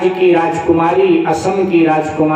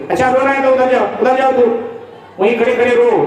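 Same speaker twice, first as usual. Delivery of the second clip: higher, sharp mock scolding; scolding wife; 5 semitones higher, much faster than usual. Wife sends her crying husband off, higher mock scolding. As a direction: shoo him away, exasperated. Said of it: "पत्नी ने डांटा".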